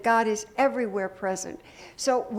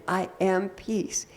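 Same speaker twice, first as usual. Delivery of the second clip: slow affirmation; slower than usual. Shown as a demonstration. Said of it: "breathe it in".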